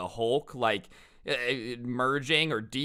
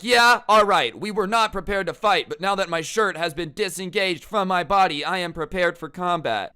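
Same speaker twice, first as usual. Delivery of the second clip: loud, high-pitched battle bravado; mock fighter; 6 semitones higher, 6 dB louder than usual. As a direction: pompously announce you're combat-ready, hamming it up. Mocking shirt-off fight readiness.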